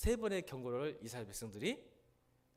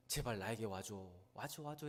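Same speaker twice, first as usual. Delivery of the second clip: clinging plea; 3 semitones lower than usual. Acted. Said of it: "바지 붙들고, 옷을 붙들고, 손을 붙들고".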